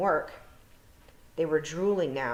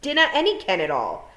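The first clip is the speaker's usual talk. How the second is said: high, louder pleading, slowing at the end; 9 semitones higher, 6 dB louder than usual. A narrator's reading. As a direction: beg for help, frightened. Tiffany begging the Feegles.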